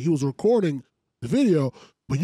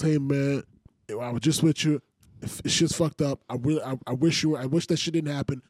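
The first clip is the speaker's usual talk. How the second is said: mock heartfelt tribute; 5 semitones lower, 4 dB quieter than usual. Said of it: "He coulda wrote a nice post".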